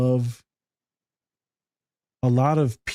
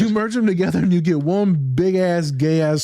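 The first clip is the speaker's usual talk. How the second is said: laughing; 5 semitones higher than usual. Real, not acted. Laughing joke on friends.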